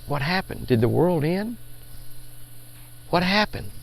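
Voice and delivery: softly retold puzzled thought; hushed wondering. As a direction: ask it softly, as if into sudden silence. Retold thought in sudden silence.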